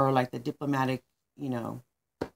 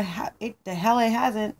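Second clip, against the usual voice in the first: heated, higher-pitched retort; angry outburst; 4 semitones higher than usual. Acted. Manny the manager contradicts the others, angry outburst. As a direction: fire back, mildly exploding. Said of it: "so he explodes".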